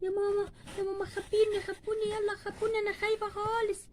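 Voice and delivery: tearful, softly pleading little voice; a scared child begging to be hidden; frightened child. Acted. (خوف طفولي باكٍ)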